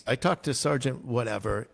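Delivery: usual speaking voice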